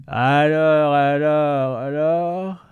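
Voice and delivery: high, gurgling alien voice; gurgling tentacle alien. Acted. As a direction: gurgle the words like a creature. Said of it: "gargouilla Lintel".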